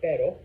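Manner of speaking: "perro" with one quick tapped R, like "pero"; single-tap R in perro. Shown as a demonstration. Teacher contrasts dog with but, single-tap R in "perro". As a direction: tap the R in "perro" just once, no trill. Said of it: "not perro".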